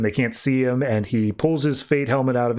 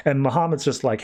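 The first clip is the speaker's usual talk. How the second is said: normal talking voice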